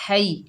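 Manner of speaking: हई with two clear syllables, ha then i; correct pronunciation. Shown as a demonstration. Teacher showing pupils the right way, careful हई. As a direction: say हई, not है. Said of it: "है नहीं पढ़ेंगे".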